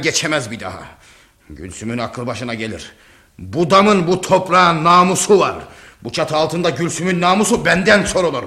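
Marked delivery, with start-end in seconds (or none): 3.4-8.4 higher, indignant declaration; angry. Acted. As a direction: assert family honour angrily. (öfkeli, namus davasında kararlı)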